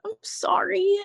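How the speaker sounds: breathy mock-pitying whisper of a retold mom. Mom turning her away, whispered pitying sorry. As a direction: whisper the apology with a pitying face. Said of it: "she did that face to me".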